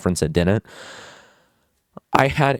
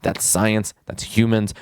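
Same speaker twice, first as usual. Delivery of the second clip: normal talking voice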